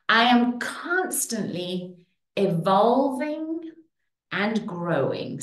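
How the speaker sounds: slow, deliberate affirmation. Shown as a demonstration. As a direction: spell it out slowly and clearly. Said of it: "Say it".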